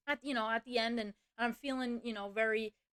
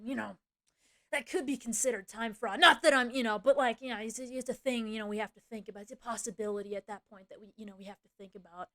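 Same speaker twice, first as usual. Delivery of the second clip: hedging boss; 2 semitones lower than usual. Retold or imitated. Boss cautioning an employee about time fraud, hedging. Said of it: "he talks to me just like this".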